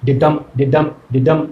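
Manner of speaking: low ডিডাম, weight on ডাম; light ডি then firm ডাম, in steady pulses; iambic beat. Shown as a demonstration. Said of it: "তার মানে বলছি দেখো".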